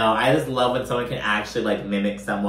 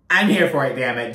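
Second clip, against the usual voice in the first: excited outburst; 4 dB louder than usual. Real, not acted. Cheering on the drama.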